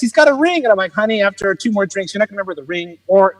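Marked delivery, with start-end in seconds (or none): 0.0-0.6 high-pitched audience interjection; woman in crowd. Retold or imitated. One woman answers from the crowd, high imitated call. 0.9-3.0 soft, knowing comeback; sly retort. Retold or imitated. Comic answers the woman in the crowd, softly sly.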